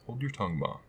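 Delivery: mild snap at mother; curt, slightly irritated reply; a little snappish. Acted. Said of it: "a little snappishly".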